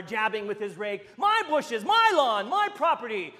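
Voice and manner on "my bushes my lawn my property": angry listing. Retold or imitated. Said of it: "yelling louder".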